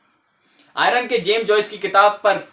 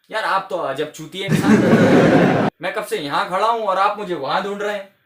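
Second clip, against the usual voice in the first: casual mock insult; 3 dB louder than usual. Shown as a demonstration. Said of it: "अगर मैं आपसे कहूं".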